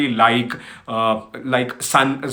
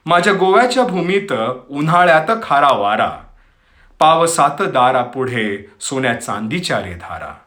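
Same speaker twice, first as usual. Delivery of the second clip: poem recitation; much faster than usual. Acted. Host recites Marathi poem on Goa to listeners, poetic recitation. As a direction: recite in measured phrases, pausing between lines.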